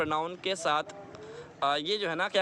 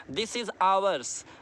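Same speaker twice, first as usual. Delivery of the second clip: very slowly, landing on ours; slow example; much slower than usual. Shown as a demonstration. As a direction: model it for students. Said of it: "आवर्स के बाद नहीं बोलना".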